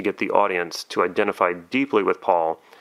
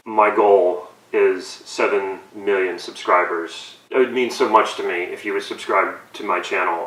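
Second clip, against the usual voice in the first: mock teary plea. Parodying Logan Paul, he begs viewers to subscribe with mock tears. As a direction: lay the sincerity on thick. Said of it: "I'm getting a little emotional".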